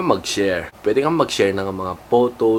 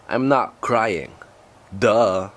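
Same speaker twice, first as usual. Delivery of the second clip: mock crying selfie; much slower than usual. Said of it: "Kung kayo ba yung umiiyak".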